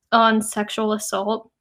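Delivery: ordinary delivery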